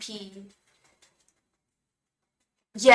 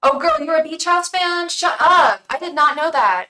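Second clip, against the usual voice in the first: higher and louder, delighted surprise; excited squeal; 9 semitones higher, 12 dB louder than usual. Real, not acted. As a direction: gush at the news like a fan. Thrilled discovering viewer is fan.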